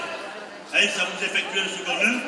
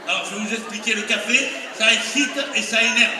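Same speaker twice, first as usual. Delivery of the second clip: mock lecture.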